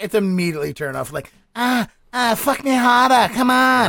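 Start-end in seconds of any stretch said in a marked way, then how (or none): 1.5-3.9 put-on higher-pitched woman with a Boston accent; mock Boston accent. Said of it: "with a woman when you hear the accent".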